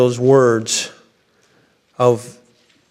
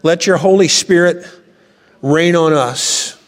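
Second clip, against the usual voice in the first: slow, pleading cry for rain, a bit higher; prayer; 3 semitones higher, slower than usual. Acted. Congregation praying for the Spirit to fall, slow and pleading. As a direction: lift a heartfelt plea to the Lord. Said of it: "And we say".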